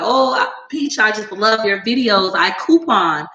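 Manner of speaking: lightly voiced friendly fan pitching couponing; sweet complimenting follower. Follower compliments before plugging her coupon channel, friendly pitch. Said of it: "You could have been like".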